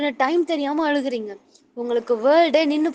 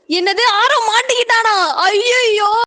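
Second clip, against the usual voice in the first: loud, high-pitched cry of alarm; shocked outcry; 10 semitones higher, 7 dB louder, slower than usual. Acted. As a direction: wail it out in mock horror. Acted alarm at bad news.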